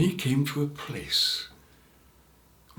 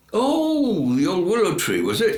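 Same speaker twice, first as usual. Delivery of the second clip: voice of God; 8 semitones higher, 6 dB louder than usual. A narrator's reading. God voice answering.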